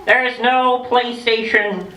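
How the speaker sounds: slow, drawn-out teasing build; slow mock-solemn countdown; dramatic slow list. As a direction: stretch each item out to get a No from the kids. Teasing kids about Antarctica.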